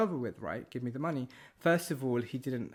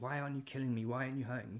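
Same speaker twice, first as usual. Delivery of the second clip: put-on furious, insistent voice, fast and angry; 5 dB quieter than usual. Recounting a man getting angry at the speaker, imitating an angry man. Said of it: "he was just getting so angry at me".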